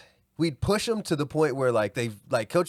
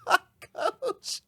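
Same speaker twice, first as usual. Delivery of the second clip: dismayed exclaim. Retold or imitated. Dismayed aside during gym fight.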